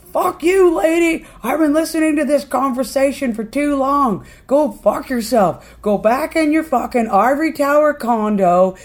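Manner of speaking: loud, high furious tirade; acted-out angry outburst; pissed off. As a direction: lay into someone at full volume, stretching the insults. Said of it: "he's pissed".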